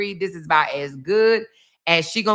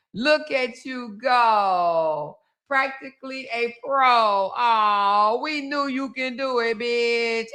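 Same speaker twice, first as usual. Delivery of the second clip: sarcastic cheer; 3 semitones higher, slower than usual. Pretend.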